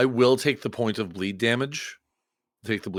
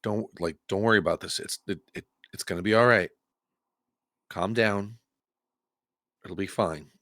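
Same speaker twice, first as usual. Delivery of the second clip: psychic big brother; 3 semitones lower than usual. Acted. Player reaching out to it in a psychic big brother voice. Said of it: "in my best psychic big brother voice".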